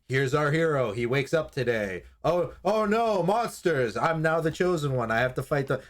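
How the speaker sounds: lightly hammed-up hero monologue; a touch of cartoon dismay; mock chosen hero. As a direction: play a stock hero mildly alarmed by monsters. Parody of normal monster-show opening.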